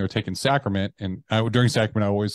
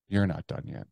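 stern inner voice; 5 dB quieter than usual. Retold or imitated. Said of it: "that voice came back in".

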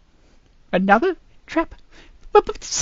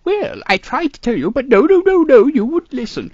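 scolding; 3 dB louder than usual. Acted. Scolding again, louder.

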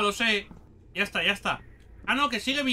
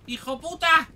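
raised, high-pitched call; calling after someone; 5 semitones higher than usual. Real, not acted. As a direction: holler after the runaway creature. Llama al gritón que huye. (llamando a gritos al que huye)

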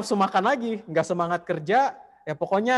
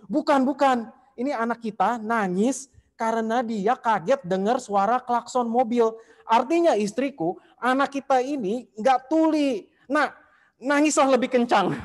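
higher and louder, bursting with joy; overjoyed father; 7 semitones higher, 4 dB louder than usual. Retold or imitated. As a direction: cheer the baby on, thrilled. Father overjoyed baby not deaf. (ayah girang menyemangati bayinya, lebih tinggi dan keras)

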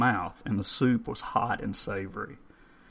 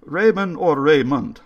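put-on higher, louder questioning old man; 7 semitones higher, 9 dB louder than usual. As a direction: query the name politely.

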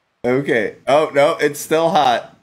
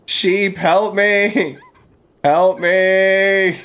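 higher, comic pleading; mock plea; 7 semitones higher, 3 dB louder, much slower than usual. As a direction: beg the animals for help, hammed-up. Begging animals for help.

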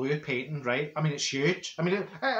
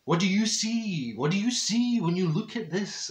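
arty man; 3 semitones higher than usual. Retold or imitated. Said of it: "he going".

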